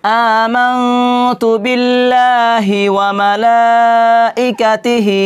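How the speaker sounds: slow, careful Arabic recitation. Shown as a demonstration. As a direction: model the kalima for learners. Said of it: "কীরকম করে পড়তে হবে". (ধীরে স্পষ্ট আরবি উচ্চারণ)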